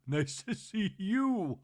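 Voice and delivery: drawn-out breathy celebrity greeting; mock Kathy greeting. Host mimicking Kathy's slow greeting.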